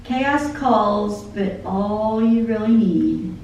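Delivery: lyrics read aloud like a poem; spoken song lyrics, devotional; poem recitation. Acted. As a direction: recite the song, measured and heartfelt.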